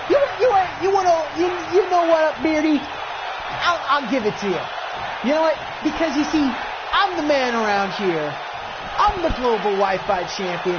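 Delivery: fired-up champion promo. Acted. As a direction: explode at the challenger, tripping over the words. Champion fires back at challenger.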